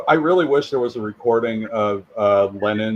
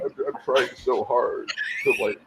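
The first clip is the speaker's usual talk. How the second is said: Bane voice; 6 dB quieter than usual. Shown as a demonstration. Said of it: "bring this up to a Bane voice".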